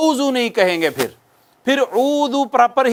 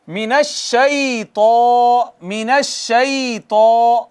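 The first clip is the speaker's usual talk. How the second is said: slow chanted من الشیطان, heavy ط; Quranic recitation; much slower than usual. Shown as a demonstration. Teacher models recitation, slow chant. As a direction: recite slowly, full-mouthed.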